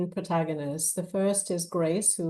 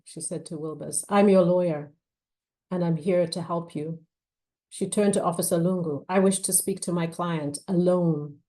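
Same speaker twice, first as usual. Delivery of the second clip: measured, expressive novel reading; story narration. A narrator's reading. Author reading her thriller to an audience, measured narration. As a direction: read the scene aloud with weight. Reads novel excerpt aloud.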